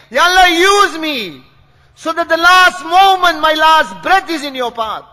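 impassioned plea to God within a sermon; fervent, emphatic supplication; fervent prayer. Real, not acted. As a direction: plead aloud, phrase after phrase. Preacher pleads to God aloud.

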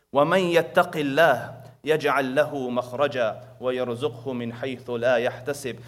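rapid recited Arabic verse, run together; Quran recitation. Acted. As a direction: rattle off the verse in one breath.

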